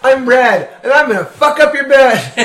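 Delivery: cackling mock mascot boast; laughing, hammed-up high mascot voice; Kool-Aid woman. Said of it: "The Kool-Aid woman comes out".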